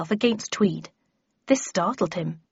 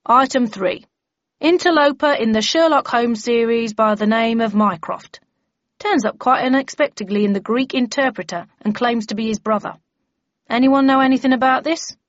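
firm, slightly raised official voice; bellman chairing briefing; 4 semitones higher, 5 dB louder than usual. Acted. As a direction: lay down procedure to the members.

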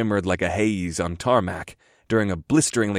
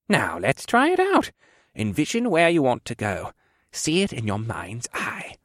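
put-on coaching old quartermaster; 3 semitones higher than usual.

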